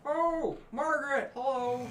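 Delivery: high, loud sing-song hello; high greeting. Acted. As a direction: call out brightly in a high voice. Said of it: "And I'll be like".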